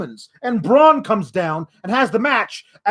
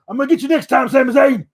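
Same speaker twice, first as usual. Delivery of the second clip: a hint of a pumped wrestler, higher; mild mock promo threat; wrestler callout; 4 semitones higher, 4 dB louder, faster than usual. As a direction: playfully threaten the rival. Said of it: "where he says".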